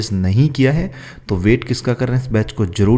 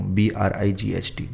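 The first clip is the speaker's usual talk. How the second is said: spelling out letters; 6 dB quieter, slower than usual. Shown as a demonstration. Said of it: "ब्राइट भी लिख सकते हो".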